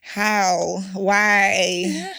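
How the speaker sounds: drawn-out gossipy objections; mock disapproval. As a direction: mimic disapproving rivals, drawing words out. Acts out the contestants' gossip about her.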